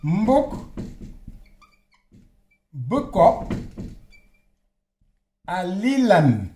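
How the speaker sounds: "Mbok" "boko" "a lilan" said apart, slowly; slow syllable by syllable. Shown as a demonstration. Teacher spelling out the phrase slowly for students. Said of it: "si je dis mbok boko".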